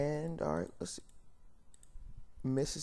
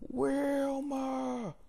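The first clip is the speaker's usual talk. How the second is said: calling out; 14 semitones higher than usual. Real, not acted. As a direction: shout her name to reach another room. Calling out to someone offscreen.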